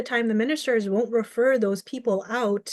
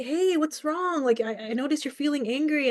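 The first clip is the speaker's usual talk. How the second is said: concerned friend; 5 semitones higher than usual. Pretend. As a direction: gently ask a troubled friend what's up, as if role-playing. Voicing a concerned friend at door.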